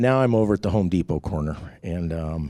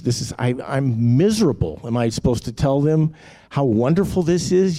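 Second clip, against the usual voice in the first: exasperated tirade, climbing higher and louder; retold screaming at God; 4 semitones higher, 3 dB louder than usual. Man hammering on God at night, retold rant building. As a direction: hammer God with complaints, building to a mock yell. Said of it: "screaming at God".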